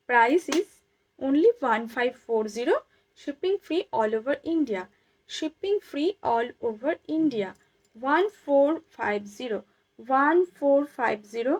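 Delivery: slow, spaced sales call of the price; deliberate live-shop price read; slow price announcement. Acted. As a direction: drag each number out for the buyers.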